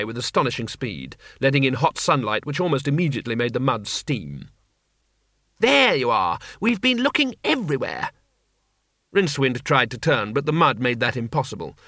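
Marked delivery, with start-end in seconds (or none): 5.6-8.1 cheerful call. Acted. Two Flower calling out to the stuck wizard, glad. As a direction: call across the mud, delighted.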